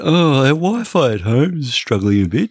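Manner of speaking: high, rushed pleading voice; whiny helpless customer. Retold or imitated. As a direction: fluster the way a needy friend asks for help. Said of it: "I get the".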